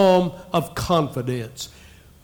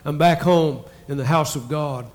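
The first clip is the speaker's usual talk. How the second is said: measured, reverent reading aloud; scripture reading. Acted. Pastor reading psalm to church, reverent. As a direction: read the psalm to the congregation.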